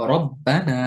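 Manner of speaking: রব্বানা slow with the র full and thick; correct heavy ra. Shown as a demonstration. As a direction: model রব্বানা slowly, heavy র. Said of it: "বরং বলতে হবে".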